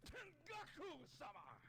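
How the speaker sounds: high, slow anime cry; anime character. Pretend. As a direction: call out like an anime hero. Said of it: "Talk like an anime character with me".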